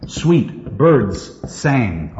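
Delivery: "sweet birds sang" very slow, each s set apart; S sounds. Shown as a demonstration. Teacher pointing out S sounds, "sweet birds sang" slow and deliberate. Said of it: "S sounds".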